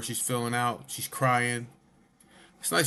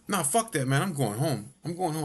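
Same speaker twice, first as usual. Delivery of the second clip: raised-pitch agitated refusal; imitated freak-out; 4 semitones higher than usual. Friend refusing to stay in the house, mock agitation. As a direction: mimic a friend insisting on leaving. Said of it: "he's gonna freak out".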